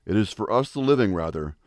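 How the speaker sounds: measured, solemn oration; formal speech. Acted. Speaker reciting the Gettysburg Address, solemn and measured. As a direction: deliver it like a memorial address.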